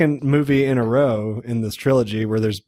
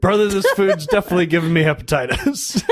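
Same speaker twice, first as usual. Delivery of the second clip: raised, quick comic character voice; mock bro patter; Randolph; 4 semitones higher, faster than usual. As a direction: riff as a pestering buddy, pitched up and brisk. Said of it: "That's a turban, Randolph".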